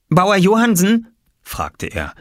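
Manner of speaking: put-on eager child's voice, pitched high; young Oskar. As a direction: ask it high and bright-eyed, like a boy. Voices Oskar asking farmer. (neugieriger kleiner Junge, hohe Stimme)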